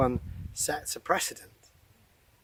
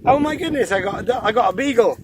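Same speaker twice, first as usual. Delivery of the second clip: high, loud startled exclamation; real surprise; 8 semitones higher, 8 dB louder, faster than usual. Real, not acted. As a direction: exclaim as a dog surprises you. Dog suddenly climbs onto him.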